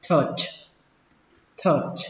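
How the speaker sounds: "touch" with an "ơ" vowel, like "tuhch"; second pronunciation. Shown as a demonstration. Teacher showing learners the second way, "touch" with ơ. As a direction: say "touch" with a short neutral uh vowel. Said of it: "Cách đọc thứ hai ... âm ơ cũng được".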